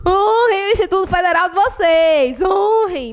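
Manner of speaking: fake-sob a dramatic plea; mock tearful plea. Teacher mock-crying as she begs students to honor their school.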